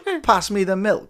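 high laughing imitation of an Italian mobster; mock Italian mobster accent. Mocking wife's milk line, mock Italian mobster accent. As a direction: mimic a botched mobster accent. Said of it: "like an Italian fucking mobster".

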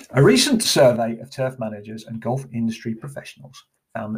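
posh, refined English reading voice. Pretend. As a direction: read it out in a posh voice. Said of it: "I'm gonna do it in a posh voice".

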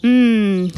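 lip-smacking hum. A narrator's reading. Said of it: "smacking his lips".

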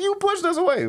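high-pitched comic protest; retold squeal of blame; mock indignation. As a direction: protest in exaggerated outrage. Retold indignant comeback to drunk friend.

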